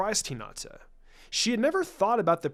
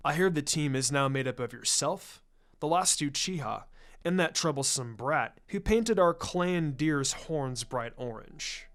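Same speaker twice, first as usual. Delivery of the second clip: lightly voiced irritated elder; 5 semitones lower, 3 dB quieter than usual. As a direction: grumble it like a put-upon clan head. Shikaku, irritated by the brat.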